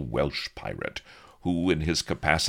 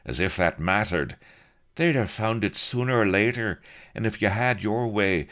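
higher, louder exasperated voice; exasperated Blood; 7 semitones higher, 4 dB louder than usual. A narrator's reading. Blood scoffs at Avery, higher and exasperated. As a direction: scoff in a raised pitch.

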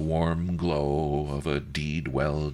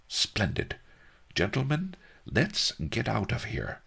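Master Li voice; 8 semitones higher than usual. A narrator's reading. Master Li speaking.

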